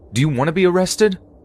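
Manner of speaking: very high, restrained, held-back shout. Reading a creepy story, shouting at a stranger through the door: restrained yell. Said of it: "I yelled one more time, trying not to wake my kids".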